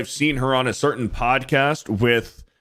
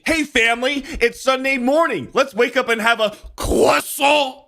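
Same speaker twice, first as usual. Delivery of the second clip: mock Italian accent; 12 semitones higher than usual. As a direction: play the over-the-top Italian relative. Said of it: "Or it's like".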